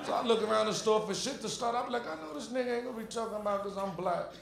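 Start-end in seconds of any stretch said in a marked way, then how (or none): 2.1-4.3 much softer grumble under his breath; muttered to himself. Acted. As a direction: grumble so he can't hear.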